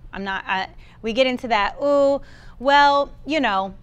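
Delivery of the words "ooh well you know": hesitant, falsely modest hedging; mock humble. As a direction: act reluctant and self-effacing. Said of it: "that humble pie".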